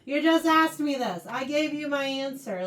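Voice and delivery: acted exasperation, punched at the start; mildly frustrated. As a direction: protest like a pestered kid. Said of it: "it's, like, really frustrating".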